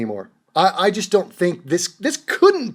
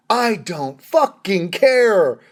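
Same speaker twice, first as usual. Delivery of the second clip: slow, word-by-word dismissal; emphatic retort; much slower than usual. Acted. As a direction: space out each word with contempt. Retort to imagined critics.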